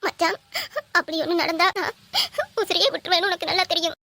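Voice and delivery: put-on sobs between phrases; fake crying. Girl threatening her man to force marriage, fake sobbing. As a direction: plead tearfully, gulping for breath. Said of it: "சரி இந்து, அழாத".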